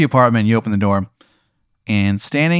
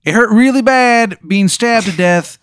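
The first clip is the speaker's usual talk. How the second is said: high, slow, pained falsetto; Steve's voice; 11 semitones higher, 5 dB louder than usual. Acted. GM voicing Steve describing being reborn, high pained falsetto. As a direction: moan it in the squeaky Steve voice. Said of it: "He goes".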